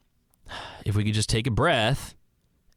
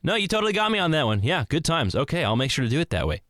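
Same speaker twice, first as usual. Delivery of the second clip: cheerful concession; 5 semitones higher, faster than usual. Retold or imitated. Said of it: "they can go".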